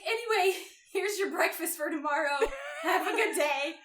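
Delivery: high, bright mock-casual mom send-off; breezy as if nothing happened; cheery mom. Mother handing over breakfast, mock cheery. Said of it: "So she's like".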